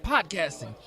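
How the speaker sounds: meniru seorang penyanyi dengan suara lebih tinggi; singer impression. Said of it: "just kept talking like James".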